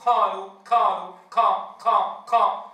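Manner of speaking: قالوا with ق pushed toward a k; ق blended with ك. Shown as a demonstration. Teacher repeats the faulty قالوا, q halfway to k. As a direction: blur the q of قالوا into a k. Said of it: "فيجعل القاف مشتركة مع الكاف".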